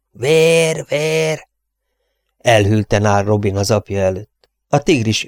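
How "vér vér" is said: high, drawn-out wail; choked, pitched-up cry of bloodlust; crazed strangled cry. A narrator's reading. Mad avenger calls for blood, high strangled cry.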